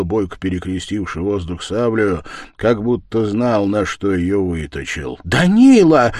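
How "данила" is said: a sharp, high call of his name; loud cry. Acted. Wife calls out to her husband mid-fight, loud cry. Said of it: "закричала громко Катерина".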